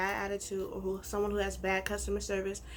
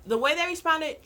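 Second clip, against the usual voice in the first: loud, higher outraged disbelief; 6 semitones higher, 7 dB louder than usual. Real, not acted. Outraged at the reply.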